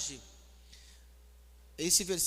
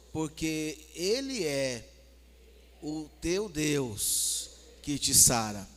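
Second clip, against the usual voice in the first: very slow, drawn-out loving address; slow, tender scripture reading; with more love; much slower than usual. Shown as a demonstration. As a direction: stretch each word lovingly, pausing between phrases. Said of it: "Fala com mais amor, fala assim".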